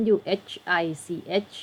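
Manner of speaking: "which" begun with a rounded W sound; pronunciation demo. Shown as a demonstration. Teacher reading out WHICH for students, W-sound demo. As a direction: model "which" with W, the H silent. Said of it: "อันนี้เสียงเหวอะนะ".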